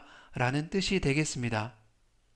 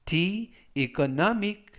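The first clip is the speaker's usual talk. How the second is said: slow demo; much slower than usual. Shown as a demonstration. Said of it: "활용 문장 보시겠습니다".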